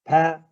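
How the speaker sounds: teacher isolating pathic, stressed; stressed syllable. Shown as a demonstration. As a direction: punch pathic as the stressed part. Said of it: "On the third".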